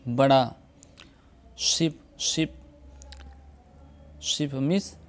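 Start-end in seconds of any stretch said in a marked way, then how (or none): 1.6-2.6 शिप with a short ई, pitched a little higher; English word ship. Shown as a demonstration. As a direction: model शिप carefully for students. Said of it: "मिसाल देखिए". (शिप, छोटी ई के साथ)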